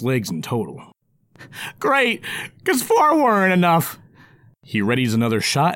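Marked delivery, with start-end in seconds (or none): 1.8-4.0 high sarcastic little goblin. Acted. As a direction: grumble it as a snarky goblin. Goblin character voice.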